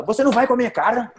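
quick, high-pitched mock indignation; Kiko. Teacher quotes a sitcom character who gets angry, mock indignant. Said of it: "que ele fica com raiva".

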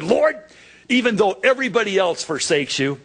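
high eager shout of Lord, then rushed; boastful Peter. Retold or imitated. Peter boasting to the Lord, eager and rushed. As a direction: Peter brags his loyalty, eager and rushed.

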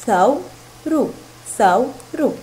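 ثور drawn out as two separate syllables; ثور broken in two for a learner; split into syllables. Shown as a demonstration. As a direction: say ثور slowly, pausing between its two beats. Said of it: "فتصبح الكلمة مكونة من مقطعان".

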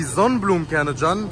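speaking with food at lips; talking while snacking on seeds; cracking seeds while talking. Real, not acted.

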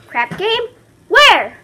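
high, loud eager gangster; Big Julie impression. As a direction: perk up like a keen gangster. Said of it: "my best impersonation of Big Julie".

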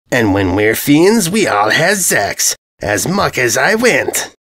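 slow, lightly voiced dopey brute; a thick villain grinning over his plan; dim bully invader. Invader telling the ponies his plan, slow and dopey.

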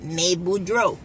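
Cajun "May Boudreaux" with a wide "May"; cajun accent. Shown as a demonstration. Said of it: "you do that A in everything".

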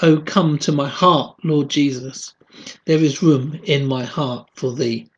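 measured spoken hymn verse; hymn read aloud. Acted. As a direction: recite it as devotional poetry.

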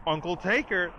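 over-the-top imitated cry; exaggerated mock holler. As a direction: call it out in an exaggerated tone. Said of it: "in such an exaggerated tone".

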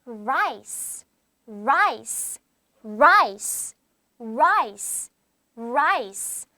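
"Rice" ending in an audible s hiss; clear final s. Shown as a demonstration. Teacher drills a word for students, "Rice" with a sounded final s. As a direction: repeat "Rice" evenly, finishing on a clear s. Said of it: "스 사운드가 나게 읽어주면 돼요".

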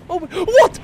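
surprised. Real, not acted. Surprised reaction in game.

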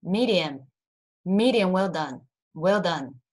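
quick, neat drill reading; each term said once, briskly; quick read-through. Shown as a demonstration. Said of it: "我们很快念一次".

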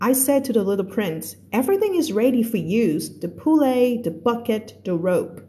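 slow, careful read-aloud of a novel; teacher reading a story to a class. A narrator's reading. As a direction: read the passage slowly for learners. Reads The Little Prince aloud.

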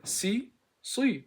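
"Si" agudo contra "Sı" grave; contrast demo. Shown as a demonstration. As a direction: marca la diferencia entre "Si" y "Sı". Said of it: "Bakın".

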